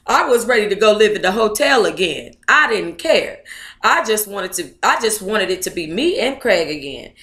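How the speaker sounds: reading a memoir aloud at an even pace; story narration. Acted. Vlogger reading the book passage aloud to viewers, steady story narration.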